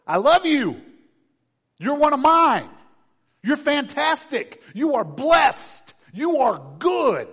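high, loud, slow and fervent; preacher voicing God's loving words to the listener. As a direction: proclaim each blessing as God speaking. God's voice speaking to you.

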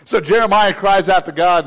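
usual speaking voice

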